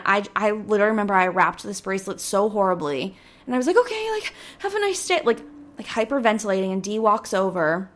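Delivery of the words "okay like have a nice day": nervous chirpy goodbye. Retold or imitated. Panicked customer farewell.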